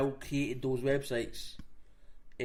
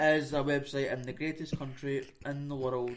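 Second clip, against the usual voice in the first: deadpan propaganda recital; mock monotone. Mocking a North Korean website's boasts, monotone. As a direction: imitate lifeless, unconvinced boasting. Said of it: "hear them saying it in a monotone".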